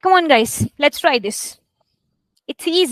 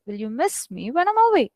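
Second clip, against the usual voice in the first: "miss me" lifted a little; natural stress. Shown as a demonstration. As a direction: put easy weight on "miss" as you ask. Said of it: "mouth taking stress to say it".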